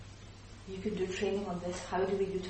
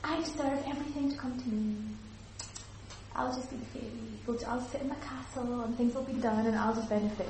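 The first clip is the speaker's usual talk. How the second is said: fairy princess; 3 semitones higher than usual. Shown as a demonstration. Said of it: "Or are you the fairy princess".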